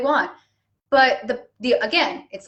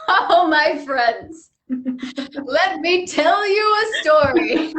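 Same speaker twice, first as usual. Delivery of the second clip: grandly slow storyteller; 4 semitones higher, much slower than usual. Retold or imitated. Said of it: "And I'm like".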